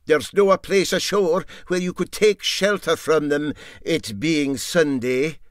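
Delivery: lightly voiced Scottish boatman, mildly stubborn; Dougie, Scots deckhand. Dougie tells the crew there's no shelter ashore, lightly voiced.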